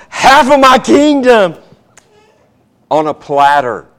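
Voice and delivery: a king hearing his own rash promise echo back; Herod's haunted thoughts. Acted. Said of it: "you can hear him thinking about".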